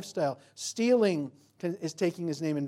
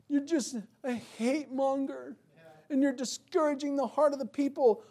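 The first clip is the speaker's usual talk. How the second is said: cartoon accusers; 9 semitones higher than usual. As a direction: whine at the prophet like offended critics. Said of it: "the cartoon version".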